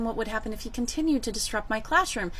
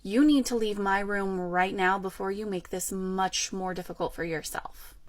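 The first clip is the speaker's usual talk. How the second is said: restrained stern reprimand, dropping softer at the end; 4 semitones lower, 4 dB quieter than usual. Retold or imitated. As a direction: give a firm, controlled warning. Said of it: "told him very sternly".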